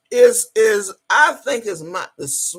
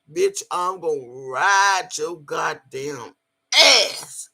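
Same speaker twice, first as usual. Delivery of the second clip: slow build to a shout; 3 semitones lower, slower than usual. Acted. Boasting, slow build to loud end.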